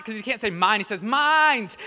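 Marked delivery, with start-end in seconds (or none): 1.0-1.8 put-on loud higher toddler yell. Son wailing over the fish on the floor, loud high yell. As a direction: shout it like a toddler claiming a toy. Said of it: "And he's yelling".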